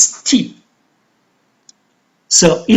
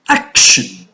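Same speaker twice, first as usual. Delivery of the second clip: "Action" with AC stressed, then dropping low; AC-tion, low unstressed end on "Action"; stress on first syllable; 11 semitones lower than usual. Shown as a demonstration. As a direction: hit the AC in "Action". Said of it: "the stress is on the first".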